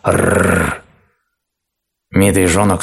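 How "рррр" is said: hoarse growl. A narrator's reading. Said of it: "хрипло зарычал".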